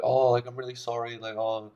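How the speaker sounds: high, meek imitated apology; put-on sheepish sorry voice; mock apologetic. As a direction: imitate someone pleading for approval. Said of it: "they start to seek your approval".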